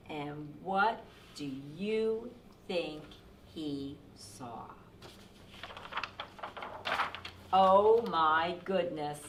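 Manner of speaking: measured read-aloud with deliberate pauses; storytime narration. A narrator's reading. Reading the cap peddler's tale to children, expressive storytime voice. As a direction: tell the story to young listeners.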